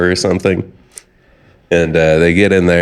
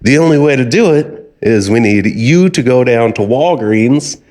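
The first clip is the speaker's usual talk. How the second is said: lightly acted scammer, pitched up; insistent scammer; 4 semitones higher than usual. Scammer sends the old caller for gift cards, insistent. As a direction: lay out the demand with pushy emphasis.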